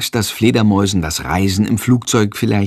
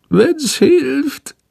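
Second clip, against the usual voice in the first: high strained little bat groan. A narrator's reading. Sick bat agreeing to hypnosis, high and groaning. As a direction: push it out through discomfort. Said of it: "Shandor ächzt".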